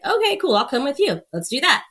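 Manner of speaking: high-starting, breezy retold reply; breezy agreement. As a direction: go along with friends, lightly. Retold easy agreement with friends.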